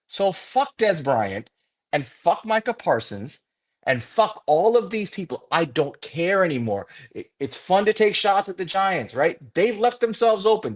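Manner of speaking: angry venting, pitch climbing; fed-up rant. Real, not acted. Fan cursing everyone mocking the Giants, fed-up rant. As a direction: curse them off in exasperation, voice rising.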